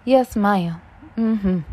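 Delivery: lightly voiced grandma, barely changed; a hint of a sweet grandma answering; mild grandma voice. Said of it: "That's gonna be my grandma voice".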